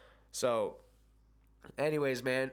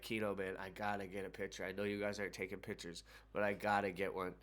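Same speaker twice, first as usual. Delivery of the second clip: imitating a softer, pleading ask; hushed plea; 6 dB quieter than usual. Fan quietly pleading with the manager for a photo, hushed. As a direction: quietly beg for a favour.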